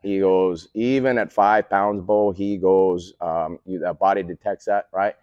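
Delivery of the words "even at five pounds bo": slow, lightly imitated North Dakota accent. Coach quoting colleague's warning, North Dakota accent. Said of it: "a North Dakota accent".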